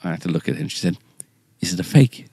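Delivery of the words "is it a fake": whispered, unvoiced, tentative; a wife's hushed, hurt whisper; whispered question. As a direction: whisper it like a secret. Wife quietly asks.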